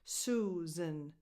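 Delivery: "Susan" with stress on the first syllable; SOO-zun, last vowel reduced to a schwa; stress on SUE. Shown as a demonstration. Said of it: "the stress goes on Sue".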